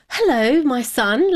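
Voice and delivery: a hint of mum's broken English; imitating mum. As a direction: lightly play her mother greeting him warmly. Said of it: "my mum looked at him and she went".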